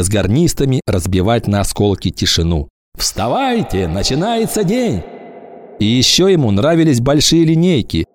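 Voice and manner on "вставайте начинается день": rousing call. Acted. Bugle wake-up call at camp.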